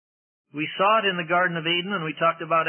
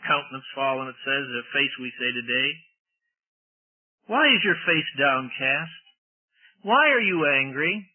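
tender; 3 semitones lower than usual. Pretend. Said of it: "very tender words from God".

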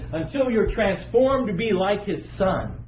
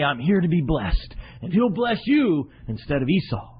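mock scheming mother. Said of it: "she comes to the son".

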